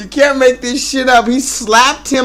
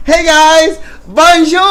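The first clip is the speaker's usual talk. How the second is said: playful greeting; 6 semitones higher, 4 dB louder than usual. Real, not acted. Greeting in mock French.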